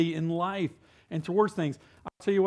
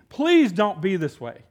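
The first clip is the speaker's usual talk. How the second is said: pleading; 6 dB louder, slower than usual. Retold or imitated. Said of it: "Solomon pleading".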